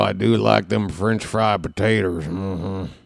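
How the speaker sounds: lightly put-on rural character voice; movie character voice. Greeting Carl with a movie line in a put-on voice. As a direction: quote it as the movie man would, understated.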